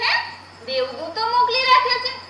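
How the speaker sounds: surprised echo. Retold or imitated. Unborn girl echoing God's words, surprised. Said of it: "મેં કહ્યું".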